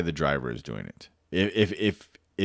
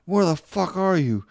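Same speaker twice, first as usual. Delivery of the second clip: imitating angry boss; 8 semitones higher than usual. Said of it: "like, pissed".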